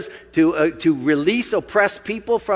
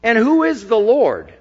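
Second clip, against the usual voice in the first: mocking Pharaoh; 5 semitones higher than usual. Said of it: "retorted Pharaoh".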